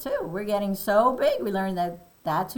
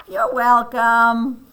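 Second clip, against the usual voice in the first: a little confused; 3 semitones higher, 9 dB louder, much slower than usual. Acted. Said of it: "He looks a little confused".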